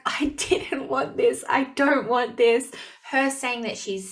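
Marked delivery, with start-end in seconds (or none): 0.1-2.7 tearful retold reaction. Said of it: "I bawled".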